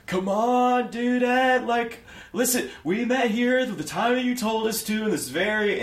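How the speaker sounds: high, loud, exasperated gnome; aggravated. Acted. Gnome Chad scolding the absent host, loud and aggravated. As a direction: complain loudly, fed up. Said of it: "is aggravatedly being like".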